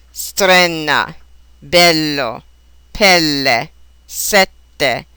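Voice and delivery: short open "eh" before the double consonant in "Strenna, bello, pelle, sette"; Italian short E, double consonant held; shortened E. Shown as a demonstration. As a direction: model each word with a short EH. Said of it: "shortened E sound".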